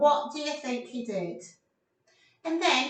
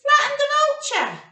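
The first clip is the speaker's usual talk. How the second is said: dramatic; 12 semitones higher, 6 dB louder than usual. Acted. Dramatic crash in story.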